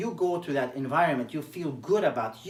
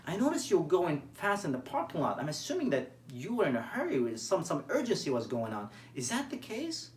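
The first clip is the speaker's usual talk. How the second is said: gentle curious tone; 4 dB quieter than usual. Shown as a demonstration. Coach shows a coworker a nurturing, curious tone. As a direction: ask like you truly want to know. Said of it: "Notice my tone of voice".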